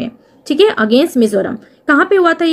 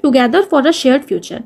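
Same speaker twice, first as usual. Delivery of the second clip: dictation pace; much slower than usual. Shown as a demonstration. Teacher repeating motto slowly.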